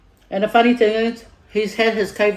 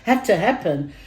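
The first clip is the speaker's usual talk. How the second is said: retold anger at the doctor; 5 semitones higher than usual. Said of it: "I got angry at the doctor".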